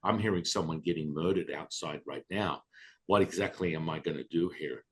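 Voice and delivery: muttered thought, rolling eyes; quick low inner grumble at the teacher; sarcastic inner voice. Retold or imitated. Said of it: "In my mind, I'm thinking".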